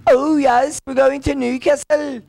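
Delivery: high, lilting mock Geordie accent; hammed-up Newcastle accent. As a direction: sing it up high in exaggerated Geordie. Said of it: "Newcastle, for example".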